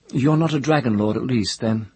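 put-on lifted girlish question, pressing; high questioning girl. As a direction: ask it high and pointed.

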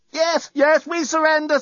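very high, frantic cry; screaming. A narrator's reading. Three terrified occupants surrendering to the fleet, screaming. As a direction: give in at once, panic-stricken. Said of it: "screamed all three occupants".

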